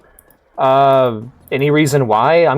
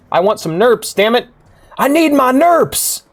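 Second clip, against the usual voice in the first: mock tantrum; 13 semitones higher, slower than usual. Player clamours for a silly game item, mock yelling. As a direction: jump way up in pitch and stretch the last cries.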